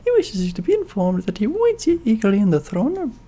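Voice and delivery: mousy voice. Acted. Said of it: "I'm trying to be like a mousy voice".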